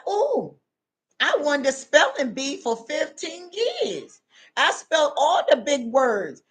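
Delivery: lightly voiced know-it-all showing off to God; boastful intellectual. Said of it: "they gonna tell God".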